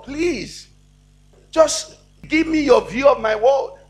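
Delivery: high-pitched pleading with God; earnest prayer. Shown as a demonstration. Believer asking God for his view, earnest prayer. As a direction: appeal earnestly, phrase by phrase. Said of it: "we must sit down and tell God".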